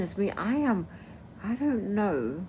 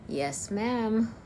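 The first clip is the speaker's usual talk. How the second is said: slightly higher Texan yes ma'am; Texan accent, a bit higher; 4 semitones higher than usual. Shown as a demonstration. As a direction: another go at a Texan twang. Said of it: "I am able to do the American Texan accent".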